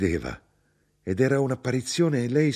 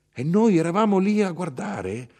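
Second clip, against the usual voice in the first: higher, ending on a rise; raised, questioning repeat; 9 semitones higher, 3 dB louder than usual. A narrator's reading. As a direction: repeat it higher, lifting at the end. Same line repeated, rising.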